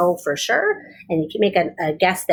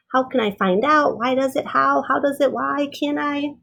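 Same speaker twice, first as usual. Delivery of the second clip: put-on higher, eager questions of a little girl; curious child; 4 semitones higher than usual. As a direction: pepper them with questions like a curious kid. Child voiced asking questions.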